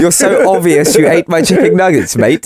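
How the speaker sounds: mock-posh English translation of slang; posh accent. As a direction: say it like a posh version of a roadman. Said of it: "the posh version".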